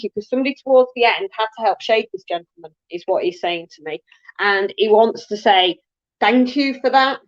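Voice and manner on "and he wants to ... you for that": talking with a dry mouth; parched mouth, words sticking a little. Real, not acted. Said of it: "it has just made my mouth so dry".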